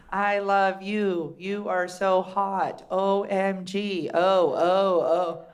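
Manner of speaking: slow, low, hammed-up sexting voice; mock texting lovers. Newlyweds texting each other in bed, slow mock-romantic. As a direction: drag out each text like a lovesick newlywed.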